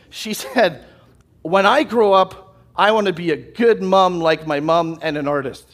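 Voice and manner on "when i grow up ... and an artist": mildly emphatic retold child's declaration; emphatic and determined. Dad quoting his daughter's big ambition, emphatically. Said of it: "very emphatically".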